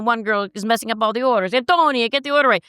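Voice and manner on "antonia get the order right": higher-pitched exasperated order; playful raised-voice telling-off; mock scolding. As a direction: call out a mock reprimand across the restaurant. Acted scolding in restaurant sketch.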